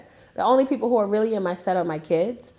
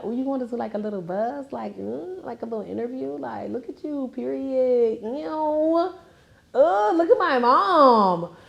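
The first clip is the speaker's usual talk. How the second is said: extra daughter; 3 semitones higher than usual. Retold or imitated. Mother mimicking how her daughter talks, hammed-up extra voice. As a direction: imitate an over-the-top daughter, pitch climbing. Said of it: "she's so extra when she talks".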